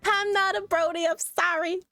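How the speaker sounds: normal talking voice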